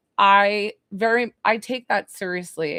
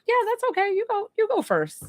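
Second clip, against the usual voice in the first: much higher, playful New York voice; New York accent; 12 semitones higher than usual. Retold or imitated. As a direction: hand over the turn in an easygoing New Yorker twang. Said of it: "Was I doing the accent?".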